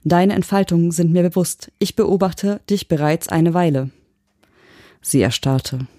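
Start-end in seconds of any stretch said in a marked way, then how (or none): 0.0-3.9 detached machine reply; emotionless. Acted. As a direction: state it without any emotion. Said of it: "Meine Stimme, frei von Emotionen".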